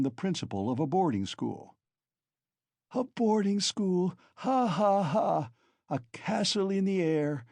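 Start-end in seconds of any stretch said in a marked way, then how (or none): 2.9-4.1 high, slow scoffing cry; scornful cry. Acted. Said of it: "cried Katerina Ivanovna". 4.4-5.5 bitter laugh. Acted. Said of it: "her laugh ending in a cough". 5.9-7.5 scornful. Acted. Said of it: "cried Katerina Ivanovna".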